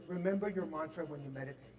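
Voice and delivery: softly guiding, like a kind coach; soft and reassuring; gentle voice. Retold or imitated. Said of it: "gentle voice".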